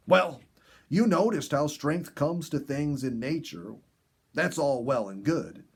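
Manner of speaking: put-on folksy porcupine teasing a young girl; lightly voiced gruff porcupine. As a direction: tease her like a wise old porcupine. Inky continues.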